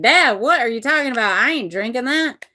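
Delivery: incredulous son. Retold or imitated. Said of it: "Rowan's like".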